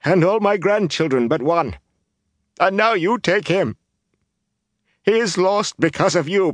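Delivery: high, anguished lament; tearful, impassioned wailing; sobbing accusation. A narrator's reading. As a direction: accuse him through grief. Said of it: "she sobbed".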